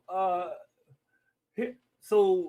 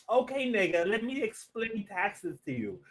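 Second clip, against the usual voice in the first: slow, gum-chewing Bronx rapper voice; 3 semitones higher than usual. Retold or imitated. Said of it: "she sounds like she's chewing gum".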